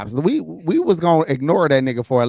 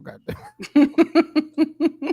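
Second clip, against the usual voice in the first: frustrated high voice; 12 semitones higher than usual. Retold or imitated. Repeating the frustrated suitor.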